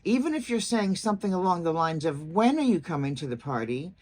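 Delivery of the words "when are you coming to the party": wh-question with "party" set low; lowered question ending. Shown as a demonstration. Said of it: "you lower your voice at the end".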